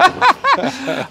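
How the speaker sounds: short, high-pitched laugh; amused laugh. Real, not acted. Host reacting to his regular guest, amused laugh. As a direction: burst into a brief, high laugh.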